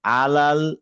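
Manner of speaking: আলাল with a light, thin l and a-vowels; light laam. Shown as a demonstration. Teacher isolating a word, আলাল with light l. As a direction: keep both vowels of আলাল open as la. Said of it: "এখানে আবার কি হয়েছে".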